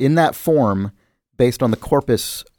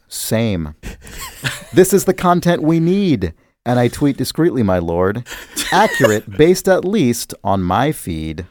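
reciting a sonnet. Shown as a demonstration. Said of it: "I'm gonna read these sonnets now".

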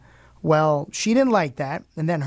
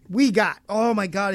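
ordinary talk, nothing marked

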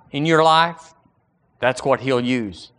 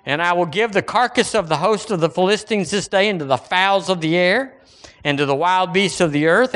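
mock biblical prophet; 3 semitones higher than usual. Reading David's defiant speech.

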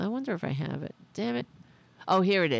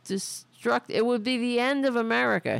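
mock Trump rant; 4 semitones higher than usual. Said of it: "he said".

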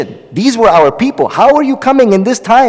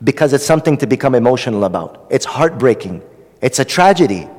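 emotional, heartbreaking; 5 semitones lower, 5 dB quieter than usual. Real, not acted. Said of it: "Why I'm getting so emotional?".

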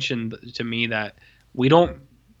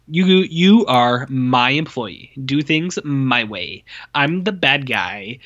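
slow, heavy mock-serious boss voice; mocking a CIA boss scolding contractors, slow and stern; slower than usual. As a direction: lay down the law, slowly, to ridicule him.

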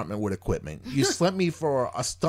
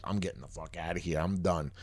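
low, much softer grumble under the breath; muttered to himself; 7 semitones lower, 7 dB quieter than usual. Retold or imitated. Patient fed up at the sleep clinic, muttering. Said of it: "'cause I was like".

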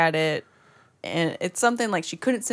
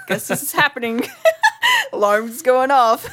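higher voice breaking into laughter; laughing retelling; 7 semitones higher, 6 dB louder than usual. Retold or imitated. Telling friends about totally forgetting the alarm code, laughing. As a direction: laugh through a helpless retold reaction.

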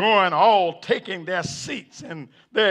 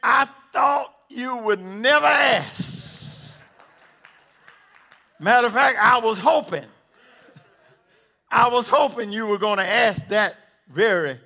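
Peter eager; 4 semitones higher than usual. Acted. Peter answers the judge, high and eager. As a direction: jump at the chance. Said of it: "and say".

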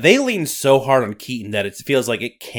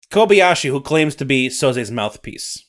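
louder Scottish storyteller voice; Scottish accent; 4 dB louder than usual. Acted. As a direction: narrate like a Highland storyteller. Nessie narration.

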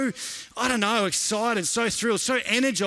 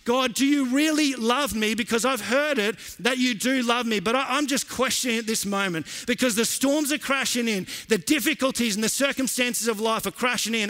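raised, intense preaching voice; 3 semitones higher than usual. Acted. Preacher voicing the doubts of the faithful, impassioned. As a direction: press the congregation with rising urgency.

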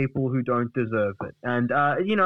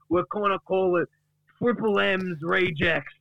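aggrieved Duck; 6 semitones higher than usual. Acted. Duck accuses the guys of dragging his name, aggrieved tirade. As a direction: wail the accusations, stretching key phrases. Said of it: "this is getting personal".

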